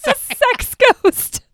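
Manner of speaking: high, slow haunting drawl; spooky voice. Pretend. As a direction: stretch it out like a ghost. Mock spooky repeat.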